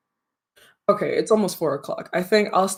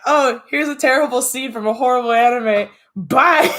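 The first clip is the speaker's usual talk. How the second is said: high, loud imitation of a chatter; put-on carefree announcement; mock breezy drop-and-run; 7 semitones higher, 5 dB louder than usual. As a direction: toss it out loudly, then a high bye. Mimics Echo dropping a scene and leaving.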